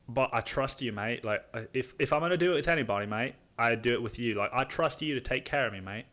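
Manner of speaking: lightly imitated British mate; loose British accent. Buddy says he trusts his friend, light British accent. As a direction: put on a casual British accent. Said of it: "He's a British guy".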